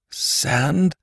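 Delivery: high, hesitant question; halting, difficult word. A narrator's reading. Stranger to whom talking is new, halting and questioning. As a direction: struggle to form an unfamiliar word. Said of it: "The word was difficult".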